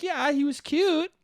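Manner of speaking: imitated woman. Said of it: "And she was like".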